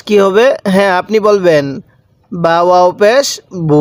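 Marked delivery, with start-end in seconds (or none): 2.3-3.8 spelling chant ending in a stretched "বু"; drawn-out vowel. Shown as a demonstration. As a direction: hold the oo in বু long. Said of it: "এরকম এক আলিফ টান দিব".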